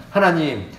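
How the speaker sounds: hammed-up desperate student praying; earnest prayer. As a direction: plead over the dice pen, half laughing. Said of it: "얼마나 간절하게 기도했는지".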